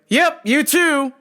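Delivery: high, loud, slow mock cheer; fake cheerful reply. Comic answering the guard with fake high cheer. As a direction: chirp it back with fake sweetness.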